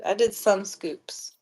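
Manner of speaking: slow whisper; whispered to self. Real, not acted. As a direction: whisper it to yourself, giving up the count. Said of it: "muttering to self counting scoops".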